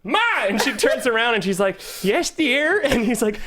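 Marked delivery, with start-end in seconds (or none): 0.0-0.2 mock holler for mom; aggressive yell. Grown son calling mother ahead with walker, mock yell. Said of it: "how aggressively he yelled for his mom". 2.0-2.8 high-pitched imitated old lady; elderly mother. Old mother turning round to her son, high old-lady voice. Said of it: "his, like, ninety-year-old mother".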